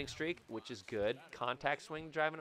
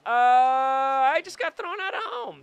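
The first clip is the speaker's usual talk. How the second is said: laughing; 12 semitones higher, 13 dB louder than usual. Real, not acted. Laughing at his own failure.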